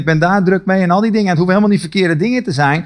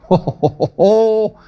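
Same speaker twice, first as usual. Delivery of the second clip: laughing; slower than usual. Real, not acted. Preacher laughing at such passion.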